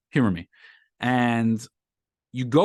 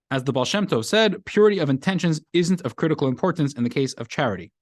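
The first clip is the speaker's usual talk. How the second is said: higher, measured read-aloud of a teaching text; 6 semitones higher, 3 dB louder than usual. Real, not acted. Teacher reads Talmud's statement to the class, reading aloud. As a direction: read the passage out to a class, pitched up.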